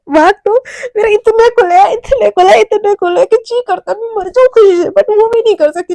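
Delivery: high-pitched, overwrought mock rejoicing; hysterical irony. Mishka tells friend her luck has opened, hysterically ironic. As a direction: gush bitterly about your so-called luck.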